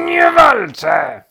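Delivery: slow, high shouted denial; loud, drawn-out squeal of protest; indignant protest. A narrator's reading. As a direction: shout it, stretching every word. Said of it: "zaprotestował królik".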